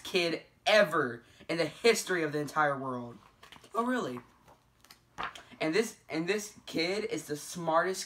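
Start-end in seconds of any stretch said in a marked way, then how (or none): 3.7-4.2 surprised. Pretend. Mock surprise at praise.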